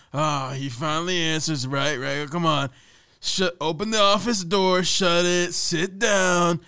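loud, high barked orders; bossy boss voice. Retold or imitated. Boss ordering employee on a call, loud hammed-up commands. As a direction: order him around like a movie boss. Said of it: "He'd be like".

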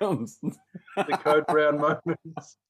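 slow, amused, laughing. Real, not acted. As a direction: drag it out chuckling.

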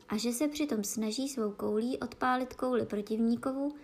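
plain reading voice

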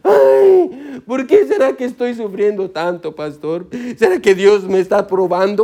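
imitating a self-pitying complainer, rising on "Ay"; hammed-up lament to the pastor; mock tearful moaning; mock whining. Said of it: "estamos llorando diciendo".

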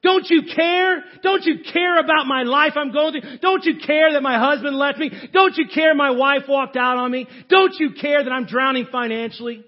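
loud, high, pleading shout at Jesus; desperate outcry. Acted. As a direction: cry out as if drowning, begging for help. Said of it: "and they say".

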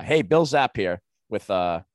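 "Hey, Bill Zapp here" as a TV pitchman; infomercial. Acted. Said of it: "he's an infomercial guy".

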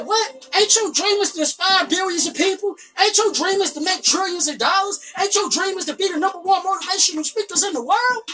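pep talk to self. Retold or imitated. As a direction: fire yourself up out of bed. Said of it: "I said".

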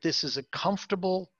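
"comfortable" given a little extra weight; stress on comfortable. Real, not acted. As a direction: lightly underline the word "comfortable". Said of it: "underline the word comfortable".

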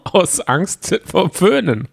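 slow, high teasing laugh. Real, not acted. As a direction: tease while laughing. Joking while laughing.

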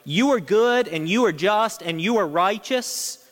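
preacher voicing David's prayer to God, pleading; voicing David's plea. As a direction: plead earnestly as David praying. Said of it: "He's saying".

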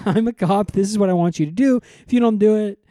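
hammed-up cop scolding a delinquent; mock cop. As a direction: lay down the law, mock-stern.

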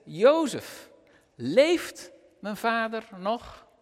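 steady, measured Bible reading from the pulpit; scripture reading. A narrator's reading. Preacher reads Genesis to the church, measured reading voice. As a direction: read the passage to the congregation with weight.

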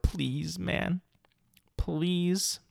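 high, soft, teary-sounding please; near-crying plea. Real, not acted. Begging Microsoft to stop the bots, soft teary plea. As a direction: sound like you're almost crying. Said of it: "I'm not crying, by the way. I'm just sounding like that".

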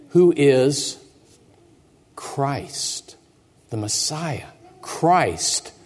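a lightly voiced angel proclaiming; slow, reverent angel announcing the birth; solemn angel.

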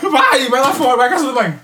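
loud laughing order; laughing shout. Real, not acted. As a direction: laugh while shooing him off. Laughing at friend gagging.

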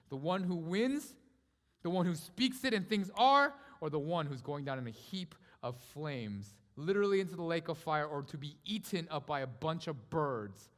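forceful, punched rhetorical choice; emphatic preaching. Acted. Preacher puts the choice to the church, emphatic. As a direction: build and lean on each contrast.

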